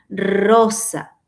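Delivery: "rosa" with a long rolled r; trilled R. Shown as a demonstration. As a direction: roll the first r of "rosa" hard. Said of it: "la pronunciación queda así".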